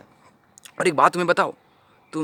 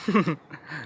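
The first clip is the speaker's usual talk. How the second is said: brief dismissive chuckle; scornful chuckle; 5 dB quieter than usual. Acted. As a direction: scoff under the breath. Scoffs at the accusation.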